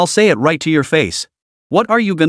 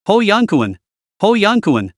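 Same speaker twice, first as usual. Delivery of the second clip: raised, angry calling of a name; 5 semitones higher than usual. Acted. Old man berating his chief of staff, furious calling out. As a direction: call the name out in fury, pitch up. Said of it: "Mister Feng flew into a rage".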